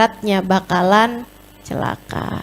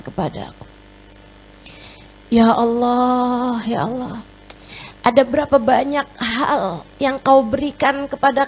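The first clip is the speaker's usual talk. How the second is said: longing prayer. Acted. Preacher acting a believer praying to God with longing. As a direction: linger on each word, yearning. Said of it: "Menangis karena rindu dan cinta".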